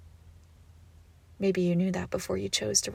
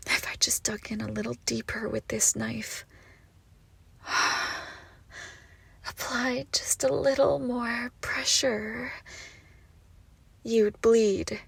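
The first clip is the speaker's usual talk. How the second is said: threatening whisper; 2 semitones higher than usual. Acted. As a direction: breathe the threat right at the ear. Threatening with knife.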